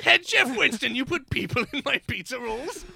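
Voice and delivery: lordly British indignation; British accent. Acted. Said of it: "Why am I talking like a British man".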